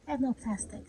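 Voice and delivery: usual speaking voice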